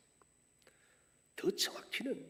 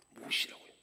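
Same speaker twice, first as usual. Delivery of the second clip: higher, much louder accusing questions; cross-examine God like a prosecutor; interrogating God; 9 semitones higher, 15 dB louder than usual. Retold or imitated. Israel putting God on trial, loud accusing interrogation. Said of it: "법적인 신문을 하고 있습니다".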